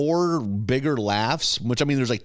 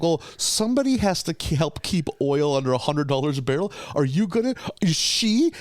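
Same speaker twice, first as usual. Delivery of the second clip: higher, mock-indignant retort; indignant Homer; 4 semitones higher than usual. Homer answers Marge's pleading, mock indignant. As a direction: huff it out like a put-upon dad. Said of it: "kinda gets indignant".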